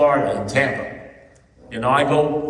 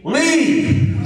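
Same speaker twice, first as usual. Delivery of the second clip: high, drawn-out mock scream; retold scream; 13 semitones higher, 4 dB louder than usual. Drunk woman on the balcony screaming at Kevin, imitated scream. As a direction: shriek it in imitation, pitch shooting right up. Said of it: "She's screaming".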